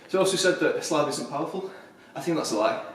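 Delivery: winded, talking between breaths; breathless after climbing. Real, not acted. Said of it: "I'm getting out of breath".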